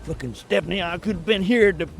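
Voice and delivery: mock-aggrieved redneck complaint; cussing redneck. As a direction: imitate a redneck griping and cussing. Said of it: "Little redneck dude is cussing out".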